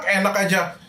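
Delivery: sharp pretend snap at a son, pitch jumping up on Sekolah; mock scolding. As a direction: scold a child who wants to quit school, half in jest. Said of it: "pasti aku marahin, pasti aku bentak".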